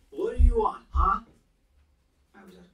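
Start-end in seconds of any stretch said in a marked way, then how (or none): 0.1-1.2 put-on high, loud drunken yell; rough drunken yell. A narrator's reading. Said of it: "he said roughly, drunkenly".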